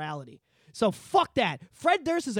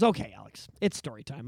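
imitating Mike; 8 semitones lower than usual. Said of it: "he goes".

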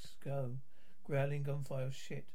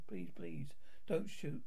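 whispered plea; slower than usual. Acted. Begging not to be shot.

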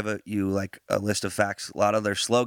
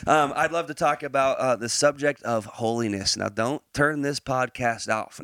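Texas accent; 3 semitones higher than usual. Real, not acted. Host easing into a podcast topic, lightly Texas-accented. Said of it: "I don't know why I'm talking in an accent again".

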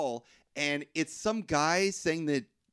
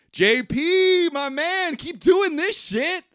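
very high, loud mock villain voice; goofy Pinhead voice; 8 dB louder, much slower than usual. Retelling the movie, voicing Pinhead cheering on J P in a high mock voice. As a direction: ham up the demon as a cheerful bro. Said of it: "he doesn't say it like that".

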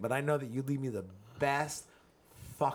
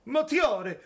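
high, loud Italian name yell; big showy shout, pitched way up; gleeful yell; 12 semitones higher, 7 dB louder than usual. Shown as a demonstration. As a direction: yell the name for the sheer fun of it. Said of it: "mad fun to fucking yell".

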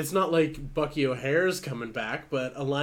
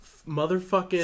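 excited; 6 semitones higher, 5 dB louder than usual. Real, not acted. Excited news about returning toys.

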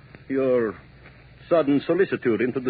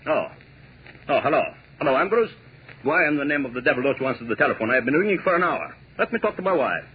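angry; 5 semitones higher, much faster than usual. Acted. Furious at the operator and butler.

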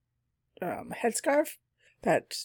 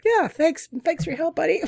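sarcastic; 10 semitones higher, 4 dB louder than usual. Retold or imitated. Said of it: "I'm like".

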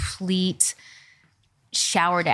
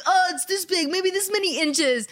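mock girly excitement; 9 semitones higher than usual. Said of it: "we're like".

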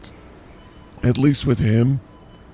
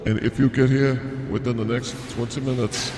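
meat counter announcer; 5 dB quieter than usual. Pretend. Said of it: "Bobby from the meat market".

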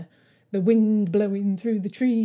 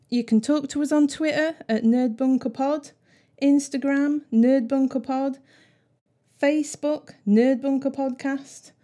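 upbeat plug; 4 semitones higher, 4 dB louder than usual. Acted. Listing social handles upbeat.

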